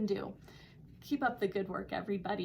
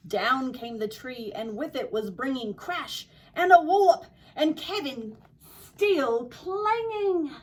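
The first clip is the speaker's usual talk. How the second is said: story read with an attempted Australian accent; lively storyteller trying an Australian accent; 3 dB louder than usual. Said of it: "my attempt at an Australian accent".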